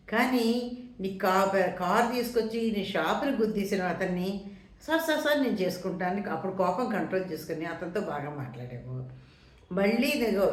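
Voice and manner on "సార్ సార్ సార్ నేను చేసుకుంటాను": fawning plea. Retold or imitated. Shopkeeper pleading to car driver.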